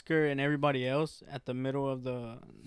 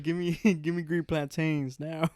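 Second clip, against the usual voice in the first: giggling through a slow, pushy order; laughing mock demand; 2 semitones higher, 5 dB louder, slower than usual. Friends retelling a demanding customer, laughing. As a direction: laugh while barking the order.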